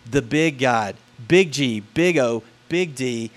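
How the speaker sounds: "big G, big O, big D" each letter punched; stress on big. Shown as a demonstration. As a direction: hit each "big" hard. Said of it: "not a little G O D".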